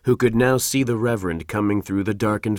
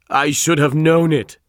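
higher, louder anguished outcry; groaning; 6 semitones higher, 7 dB louder than usual. A narrator's reading. The Reverend learning of the deception, groaning. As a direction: groan it out with force. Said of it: "groaned the Reverend".

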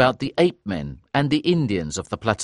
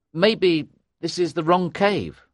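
slow, higher-pitched, hesitant; disheartened doubt; 7 semitones higher than usual. A narrator's reading. Narrator to companions at the rock wall, doubtful. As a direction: offer it slowly, unsure.

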